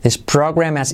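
"has" as "as", joined onto "program"; dropped H. Shown as a demonstration. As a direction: glide from "program" into "has" without an H. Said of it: "podrías saltarte la H de has". ("has" sin H, unido a "program")

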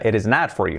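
"not" with its T barely there in "It is not for you"; linked phrase, T of "not" nearly dropped; almost omitted T. Shown as a demonstration. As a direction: let the T in "not" almost vanish. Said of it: "podemos decir casi omitirla".

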